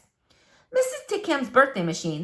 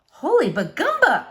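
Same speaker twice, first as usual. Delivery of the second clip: put-on higher, louder girlish exclamation; girl's exclamation; 6 semitones higher, 4 dB louder than usual. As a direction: blurt it out like an astonished kid. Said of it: "said Flora".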